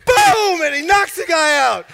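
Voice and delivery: booming, high-pitched shout; explosive climax. Real, not acted. Storyteller reaching the knockout, explosive climax. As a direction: land the knockout punch with the voice.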